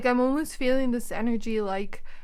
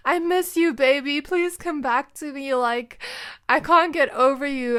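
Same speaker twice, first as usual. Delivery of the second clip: higher, louder begging ex; pleading ex-boyfriend; 4 semitones higher, 4 dB louder than usual. Acted. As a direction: beg her to take you back. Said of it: "and he's like".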